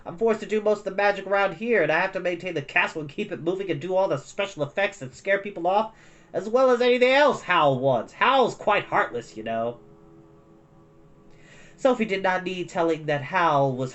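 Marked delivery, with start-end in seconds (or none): 0.0-9.8 higher, louder whine; whining demon. A narrator's reading. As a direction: complain like a bound fire spirit. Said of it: "Its voice took on a bit of a whine again".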